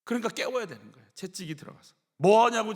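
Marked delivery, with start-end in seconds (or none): 2.2-2.7 sharp rebuke. Retold or imitated. Joab rebuking David.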